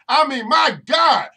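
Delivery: loud, slowed, fed-up cry of my God; exasperated outburst. Real, not acted. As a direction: let it burst out in frustration. Exasperated outburst at repeated talk.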